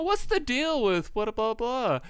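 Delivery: high, drawn-out observational whine; Jerry Seinfeld. Retold or imitated. Comic mocks everyone copying the trend, high drawn-out imitation. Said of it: "when Seinfeld was big".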